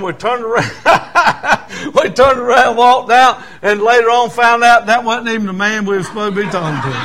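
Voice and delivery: laughing through the punchline; chuckling while telling it; story told between laughs. Real, not acted. Laughing at the funny mix-up.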